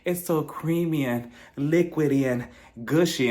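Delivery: slow, mock-suggestive food praise; suggestive innuendo. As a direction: linger over each word, hinting playfully. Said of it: "starts insinuating certain things with the food".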